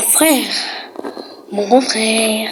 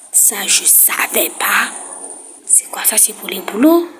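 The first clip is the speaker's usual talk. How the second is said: whisper; 3 semitones lower than usual. Real, not acted. Discovering new game menus.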